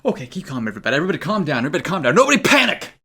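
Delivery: rising from calm to a high cry; mock panic. Shop clerk hamming up his own panic, building to a shout.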